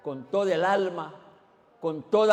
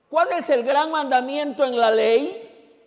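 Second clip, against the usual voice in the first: slow, higher and louder earnest question; a young man's slow, raised question; young man asking; 9 semitones higher, 9 dB louder than usual. Acted. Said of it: "Maestro", así empieza el versículo".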